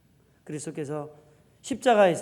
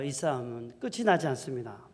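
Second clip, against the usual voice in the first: ordinary delivery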